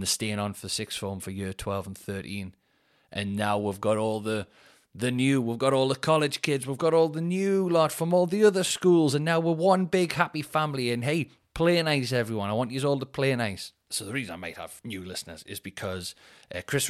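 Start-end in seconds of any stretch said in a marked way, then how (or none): 3.1-13.7 lightly played head teacher addressing assembly; mock school-assembly speech, building then easing. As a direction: welcome the new pupils, rising in pitch. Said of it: "I feel like a head teacher".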